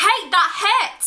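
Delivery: high, loud protest; indignant yelp. Acted. Man hit on the head protests to the spring, loud yelp.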